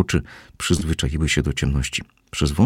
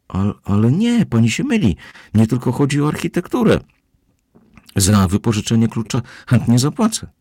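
higher, louder, flustered insistence; flustered protest; 7 semitones higher, 4 dB louder than usual. A narrator's reading. Kozłowski protests to the housekeeper, higher and flustered. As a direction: plead your case, rattled.

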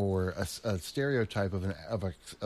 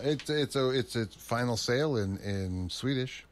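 light Swedish accent on final sale; a hint of Swedish lilt; 2 semitones higher, slower than usual. Shown as a demonstration. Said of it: "the accent you added".

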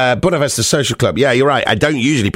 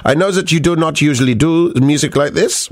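put-on German accent; 3 semitones higher than usual. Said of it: "I'm allowed to do the German accent".

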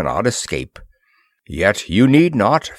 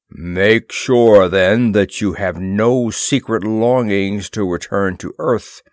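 a mild stern warning, louder on make sure; heavy warning; 3 dB louder than usual. Acted. Horta warning the flyers, mildly stern and heavy. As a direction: lean on it as a threat, understated. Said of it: "he warned heavily".

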